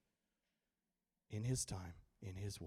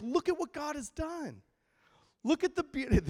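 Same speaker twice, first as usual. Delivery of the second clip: high, loud wonder; awestruck; 13 semitones higher, 5 dB louder than usual. Retold or imitated. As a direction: marvel at the sky. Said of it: "I'm like".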